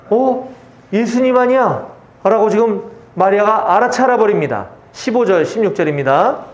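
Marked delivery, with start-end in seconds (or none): 0.1-1.9 higher-pitched, mildly surprised question; surprised double-take, acted lightly; startled recognition. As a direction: act out a sudden dawning realisation. Mary suddenly recognises Jesus.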